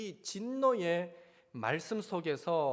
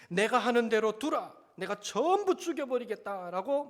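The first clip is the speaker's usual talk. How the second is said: God's wrathful voice; 4 semitones higher, 5 dB louder than usual. Retold or imitated. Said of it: "말씀하시는 하나님의 음성".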